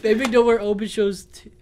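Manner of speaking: real giggles breaking in; holding back laughter. Real, not acted. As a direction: try to say it before laughter takes over. Cracking up over slip of tongue.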